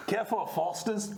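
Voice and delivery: hammed-up Australian accent; Aussie accent. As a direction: play it as a comic Aussie. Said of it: "Keep the accent if you like".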